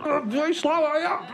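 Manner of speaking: high mock Black Country taunting; imitating yobs. Comic retelling lads shouting from the car, high mock taunt.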